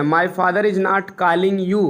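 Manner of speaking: slow and evenly spaced; slow dictation. Shown as a demonstration. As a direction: dictate it slowly. (धीरे-धीरे लिखवाना)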